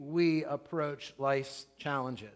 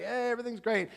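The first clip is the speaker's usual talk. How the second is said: lightly voiced, higher surfer dude; a hint of easygoing surfer; 6 semitones higher, faster than usual. Preacher quoting the surfer contestants, lightly voiced surfer dude. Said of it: "these poor surfer dudes are like".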